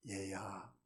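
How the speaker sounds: soft, low, gentle call to his son; tender father. Retold or imitated. Father gently calling his angry elder son, tender. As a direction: hush and soften like a loving father. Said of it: "이 아버지의 마음이".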